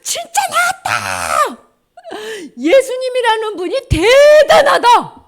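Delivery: high, loud ecstatic cry; overjoyed shouting. Acted. Healed lepers marveling at Jesus, overjoyed shouting. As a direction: shout in breathless amazement and joy. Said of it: "소리 지르기 시작했어".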